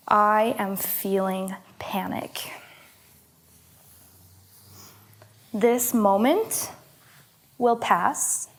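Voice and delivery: slow, gentle, long pauses between phrases; slow soothing affirmation. Shown as a demonstration. Teacher leads panicked students through a reassuring affirmation slowly. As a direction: lull them through each phrase. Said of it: "repeat after me".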